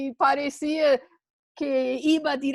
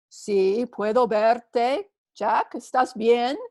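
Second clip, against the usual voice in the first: calm reassuring; 3 dB louder, slower than usual. Acted. God voice answers calmly.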